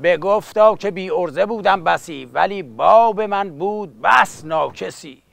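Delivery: rhythmic epic verse recital; epic teahouse storyteller. Acted. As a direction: chant it like a coffeehouse bard.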